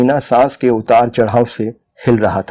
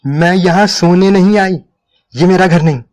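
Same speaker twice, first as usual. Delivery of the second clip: higher and sharp, firm refusal; 7 semitones higher, 3 dB louder than usual. A narrator's reading. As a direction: cut him off sharply. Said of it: "तेज लहजे में बोली". (तेज़, तीखा लहजा)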